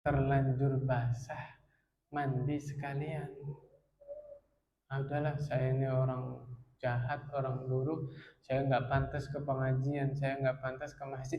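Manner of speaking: lightly voiced whispering tempter; voicing satan. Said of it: "Apa kata syaitan?".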